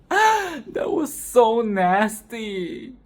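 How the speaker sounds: slow, laughing through the words; drawn-out laughing disgust. Real, not acted. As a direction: giggle it out slowly. Repeat, laughing.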